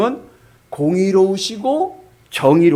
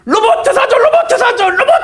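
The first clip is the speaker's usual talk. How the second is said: put-on a boy screaming for a robot in the store, much higher and louder; child tantrum; 9 dB louder than usual. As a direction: throw a full kid's tantrum. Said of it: "애가 막 울면서".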